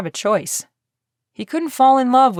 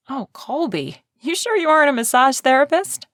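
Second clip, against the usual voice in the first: put-on playful higher young woman; Ivy teasing; 6 semitones higher than usual. A narrator's reading. Ivy teasing Colby during his massage, playful and higher. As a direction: tease him, pleased and a little breathless with delight.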